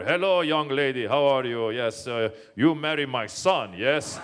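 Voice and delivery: put-on hearty dad with a Persian accent; Persian father's accent. Father to the ice cream girl, hearty Persian accent. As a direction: imitate an embarrassingly forward Persian father. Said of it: "and my father".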